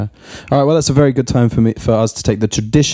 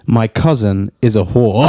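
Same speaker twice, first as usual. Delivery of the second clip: sultry movie title; 2 semitones lower, slower than usual. Pretend. Reading porn title in sexy voice.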